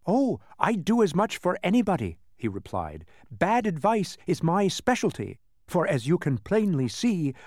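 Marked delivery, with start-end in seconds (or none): 0.0-2.2 high-pitched smug creature voice; boastful demon. Acted. Demon to trapped travelers, high and smug. 3.3-7.3 high-pitched smug creature voice; boastful demon. Acted. Demon to trapped travelers, high and smug.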